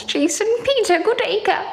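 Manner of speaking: high, sing-song mock grandeur. Shown as a demonstration. Mocking a commenter's pompous full name on the live. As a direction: lift the name up and sneer at it.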